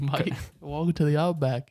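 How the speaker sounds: lightly put-on Australian accent; hint of a jokey Australian welcome; mock Australian accent. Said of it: "that's exactly how they would say it too".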